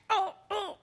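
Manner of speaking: real excitement breaking through; too excited. Real, not acted. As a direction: gush it, unable to contain yourself. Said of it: "I'm too excited".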